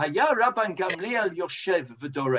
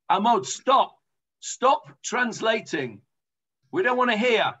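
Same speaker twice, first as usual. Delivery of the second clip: higher, firm mock demand; acted crowd protest; 4 semitones higher than usual. People telling the translator to stop, acted protest. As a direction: act out fed-up people cutting someone off. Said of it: "the people said to him".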